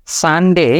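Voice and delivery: সানডে said fast, vowel short; the rushed everyday সানডে; quick Sunday. Shown as a demonstration. Teacher shows the rushed common সানডে. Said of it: "খুব fast বলি".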